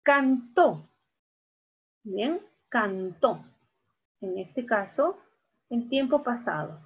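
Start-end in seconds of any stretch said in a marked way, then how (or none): 0.0-0.9 "Cantó" as can-TÓ, firm final syllable; stress on last syllable. Shown as a demonstration. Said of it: "aquí está la mayor fuerza de voz". 2.7-3.4 "cantó" slowly split, can-TÓ; stress on last syllable. Shown as a demonstration. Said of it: "aquí está la mayor fuerza de voz".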